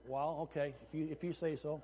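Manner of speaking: quiet, low, meek reply; softly muttered concession; meek response. Retold or imitated. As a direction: give in softly, dropping your voice. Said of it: "That was my response".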